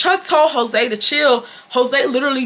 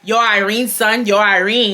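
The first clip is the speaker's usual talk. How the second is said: Chuck's New York talk. Retold or imitated. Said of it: "he talk like he from New York".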